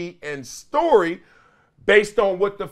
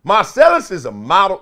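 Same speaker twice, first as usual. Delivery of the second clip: Magic Johnson impression; 3 semitones higher, 7 dB louder than usual. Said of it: "let me do it in my magic voice".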